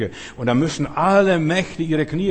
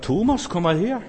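gently calling Thomas; 5 semitones higher than usual. Acted. Jesus calls doubting Thomas.

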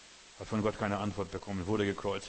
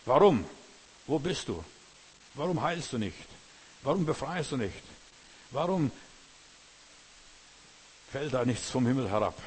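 loud, higher questioning shouts; outcry at God; 3 semitones higher, 5 dB louder than usual. Acted. A complaining believer shouting questions at God, loud. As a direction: hurl the whys at heaven.

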